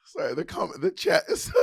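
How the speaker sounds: giggling through the words, pitch jumping up; breaking into laughter mid-sentence; laughing at a chat comment while trying to explain; laughing while talking. Real, not acted.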